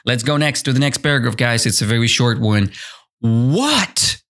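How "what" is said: high, rising cry of disbelief; shocked cry. Acted. Ants react to the begging grasshopper, shocked cry. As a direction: cry it out in astonishment, pitch shooting up. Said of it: "cried the ants like this".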